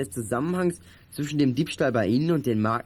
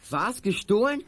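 shocked disbelief; 6 semitones higher, slower than usual. Acted. Shocked at theft accusation.

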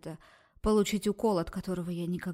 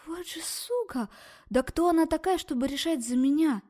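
much higher, angry cry; furious outburst; 8 semitones higher, 4 dB louder than usual. Acted. Girl raging at the doctor, furious. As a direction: spit out the rage.

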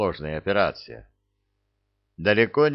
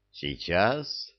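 lightly voiced singsong elf; a hint of a lilting little voice; 5 dB quieter than usual. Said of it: "отозвался певучий голосок эльфа".

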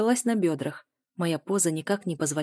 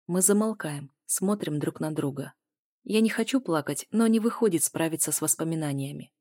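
plain reading voice

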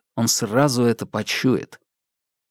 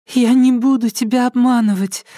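put-on high childish voice, louder, with a stressed не; childlike voice; 11 semitones higher, 3 dB louder than usual. A narrator's reading. Alka repeats her promise aloud to the psycho, high and childlike. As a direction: speak like an earnest little girl. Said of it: "голос её изменился, стал более детским".

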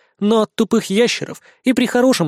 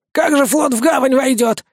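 higher, anxious question; frightened vampire; 7 semitones higher than usual. A narrator's reading. Vampire frightened by the fog, high and anxious. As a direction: ask it with a start of fear. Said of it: "испугался упырь".

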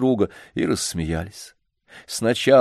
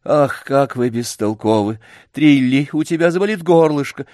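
a hint of a haughty, exasperated lady; impatient lady; 6 semitones higher, 3 dB louder than usual. A narrator's reading. Rich lady haggles impatiently with the old man, lightly haughty. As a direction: fuss and haggle from above.

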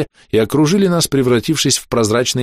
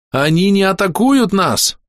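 high, drawn-out shout; full-throated yell; 9 semitones higher, slower than usual. Acted. Hero rushes to the ice wall, yelling the warning. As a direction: cry the discovery out to everyone. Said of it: "уже во всю глотку заорал".

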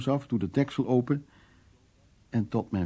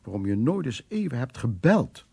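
aunt calling out; 5 dB louder than usual. Retold or imitated. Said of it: "En dan riep ze".

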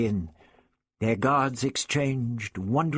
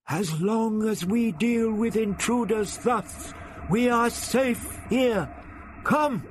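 shouting Nemini; 10 semitones higher than usual. A narrator's reading. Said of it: "and shouted".

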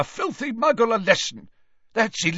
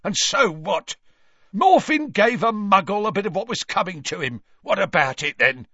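raised, combative retort; angry retort; 10 semitones higher, 3 dB louder than usual. A narrator's reading. Father defending his son to an official, angrily. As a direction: throw it back at him, pitched high. Gaunt continues snapping back.

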